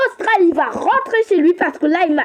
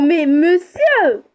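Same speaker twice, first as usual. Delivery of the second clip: a slow, louder, falling mais monsieur; louder protest; 4 dB louder, much slower than usual. Acted. As the seller walks off, she calls after him in a slow, louder protest. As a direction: drag out monsieur slowly and louder, like a cry of outrage.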